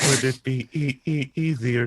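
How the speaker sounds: mimicked stutter. Teasing echo of the stuck stutter.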